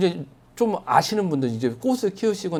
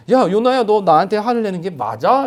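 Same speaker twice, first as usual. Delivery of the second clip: challenging question; 5 semitones higher, 5 dB louder than usual. Retold or imitated. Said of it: "라고 묻는 그 하나님의 물음에".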